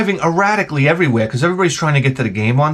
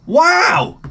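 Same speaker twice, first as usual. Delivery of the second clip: high-pitched whoop of amazement; hammed-up high holler; mock excited shout; 14 semitones higher than usual. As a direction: imitate an overexcited sideline parent. Imitated overexcited sideline parent.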